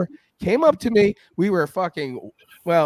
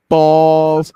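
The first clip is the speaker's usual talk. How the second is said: blunt retort; 8 dB louder than usual. Retold or imitated. Retold blunt reply to friend.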